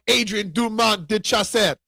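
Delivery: name Adrian Dumont de Chasset said with a French accent. Shown as a demonstration. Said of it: "I say it with a French accent".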